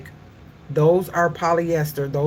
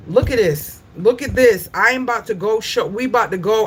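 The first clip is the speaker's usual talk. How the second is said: pissed off; 5 semitones higher, 3 dB louder than usual. Real, not acted. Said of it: "I am pissed".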